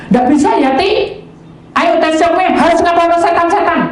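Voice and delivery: high, playful voice of God; teasing God voice. Retold or imitated. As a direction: tease him like a playful father.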